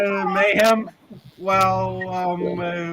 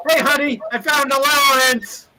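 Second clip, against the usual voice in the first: cheeky sweet talk; 7 semitones higher than usual. Acted. Pando sweet-talks holding gold.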